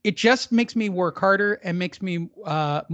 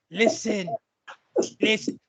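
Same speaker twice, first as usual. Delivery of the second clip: hammed-up English rock-star accent; a rock singer. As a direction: put on a loose, drawling English accent. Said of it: "like a rock singer, sort of".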